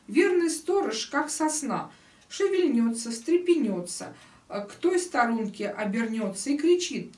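rhythmic storyteller's recital; lively verse reading. Acted. Teacher reading the golden cockerel tale aloud, lively rhythmic storytelling. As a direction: recite the tale in bouncing couplets.

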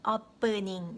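OPENING broken up as AP-peu-ning; as it sounds. Shown as a demonstration. Teacher showing learners what they hear, drawn-out opening. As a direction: stretch out OPENING with an open ah start. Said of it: "이렇게 들리시죠".

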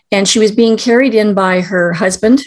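fighting back tears mid-sentence; choked up. Real, not acted. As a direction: voice catching with emotion. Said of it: "I get very emotional when I tell this story".

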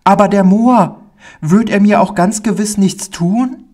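put-on fear returning in a small child; stammering boy. Pauli anxiously asks the man about the Moor, very high and pleading. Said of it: "und er stammelte".

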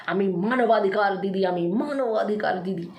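slow, drawn-out mocking quote; mock boasting. Rival quoted bragging about her title, mockingly drawn out. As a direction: imitate a self-important claim, slowly. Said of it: "প্রথমে তো heavy ঢপ দিলি".

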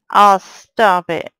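loud, slow, drawn-out complaint; exasperated plea. Real, not acted. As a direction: beg the mobs to quit. Mobs attacking.

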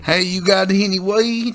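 slow, lazy stoner drawl; a laid-back dude asking for weed; hippie stoner voice. Pretend. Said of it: "hippie stoner voice".

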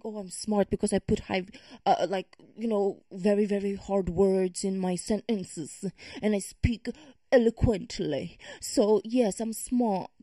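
lightly put-on British accent; mock a self-styled clever talker in mild British; slightly British, mimicking someone showing off. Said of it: "I went to the British one".

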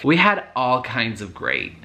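put-on American accent. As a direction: play the drunk ex rambling in an American accent. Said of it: "I'm gonna be putting an American accent".

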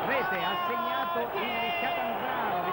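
rising to an excited goal call, pitch climbing; breathless italian goal commentary. Real, not acted. Goal scored, live commentary. (telecronaca del gol sempre più concitata)

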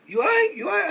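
high, teasing "you all right"; high mock concern. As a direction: sing it up high like a mock worried friend. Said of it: "he was like".

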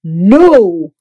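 a loud, sharp no; fuming. A narrator's reading. Guest refusing blanket, fuming. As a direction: cut it off, fuming. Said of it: "Mister Snore fumed".

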